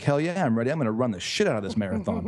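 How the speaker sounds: hyped and raring to go; pumped runner. Retold or imitated. Runner at the marathon start line, pumped and eager.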